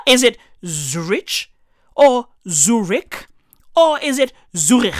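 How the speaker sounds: "Zurich" said three different ways, each rising like a question; trying pronunciations of Zurich. Shown as a demonstration. Comedian unsure how to say Zurich, asking each version. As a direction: puzzle over how to say "Zurich". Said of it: "How the fuck do you say this shit?".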